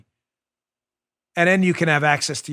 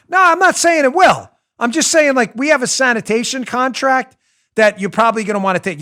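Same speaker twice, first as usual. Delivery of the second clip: mob enforcer; 7 semitones higher, 6 dB louder than usual. Retold or imitated. Mob enforcer pressing the deli owner.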